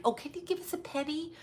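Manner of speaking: high, soft mocking plea; a hammed-up high plea for pennies; mock pleading. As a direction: whine it up high and small, mocking. Mocking charity beggar voice.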